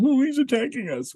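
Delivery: squealed mock outrage; upset media mimicry. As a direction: whine it way up high like a panicked sissy. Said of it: "got all upset".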